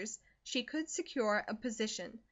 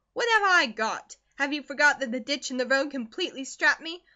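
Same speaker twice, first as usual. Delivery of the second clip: bitter scolding mother; 3 semitones higher, 7 dB louder than usual. Acted. Mother berates daughter for whining, loud and bitter. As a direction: berate her, rising to a near shout. Narrator voices Mrs Comstock.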